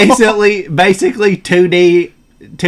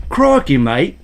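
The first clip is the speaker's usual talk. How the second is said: mild Australian "crikey, mate"; lightly put-on Australian accent; 2 semitones lower than usual. Trying an Australian one on request, mild Australian accent. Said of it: "Now do an Australian one".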